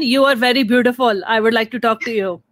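lightly put-on South Asian accent, mocking a pickup line. Mocking men who DM April, in a South Asian accent. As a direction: parody the Indian DM guys in a South Asian accent. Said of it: "When you do your accent".

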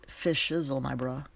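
goofy put-on slang; mock street talk; silly slang. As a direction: toss out slang you can't quite pull off. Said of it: "I sounded so stupid right there".

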